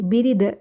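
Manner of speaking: बिरिद with no nasal n before द; बिरिद said as the mistake, n left out; wrong pronunciation demo. Shown as a demonstration. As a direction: drop the nasal, a plain oral बिरिद. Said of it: "बिरिद नहीं".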